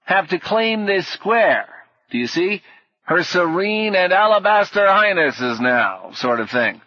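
high-pitched fussy knight; dotty knight, mildly perturbed. A narrator's reading. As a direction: explain the rules, getting flustered. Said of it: "was growing perturbed".

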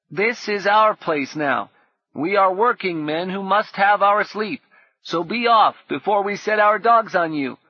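put-on half-convincing scornful boy; mock deep scornful. A narrator's reading. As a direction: try to sound like a tough man. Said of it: "tried to make his voice deep and scornful".

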